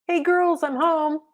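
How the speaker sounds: high, bright mom's call at the door; announced. A narrator's reading. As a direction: announce arrival from the doorway. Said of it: "Mom announced".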